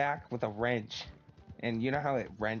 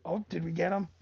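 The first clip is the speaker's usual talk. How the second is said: higher, louder, gleeful mock triumph; mock excited; 9 semitones higher, 5 dB louder than usual. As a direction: crow like you finally cracked him. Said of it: "I was like".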